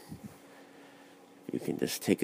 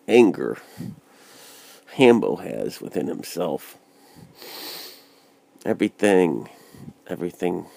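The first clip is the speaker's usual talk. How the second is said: wearing a mouthguard. Real, not acted. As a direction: mouth guard in, slightly blurred. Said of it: "as I have my mouth guard in".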